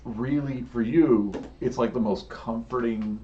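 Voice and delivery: dramatic scene setting with long pauses; measured, suspenseful storytelling; game master narration. Acted. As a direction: draw out the big moment, leaning on the vivid words.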